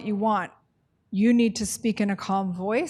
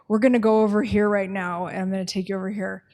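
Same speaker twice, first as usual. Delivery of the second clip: bossy instructions; faster than usual. Shown as a demonstration. Case manager ordering a client to move, brisk and bossy. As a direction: hurry the client along like an order. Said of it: "Totally different".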